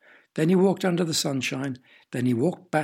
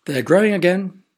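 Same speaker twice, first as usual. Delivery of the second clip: a much louder, higher burst of joy; delighted cry; 4 semitones higher, 9 dB louder than usual. A narrator's reading. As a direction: announce it thrilled, can't contain it. Father delighted about vegetables.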